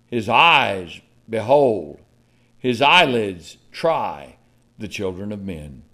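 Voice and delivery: slow, solemn Psalm, fading to a hush at the end; scripture reading. Acted. Preacher reading Psalm eleven to the church, solemn.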